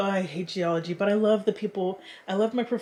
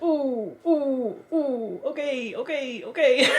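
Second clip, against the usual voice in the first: laughing through it; 5 semitones higher, 3 dB louder, slower than usual. Retold or imitated. Retold hurt reaction with laughter.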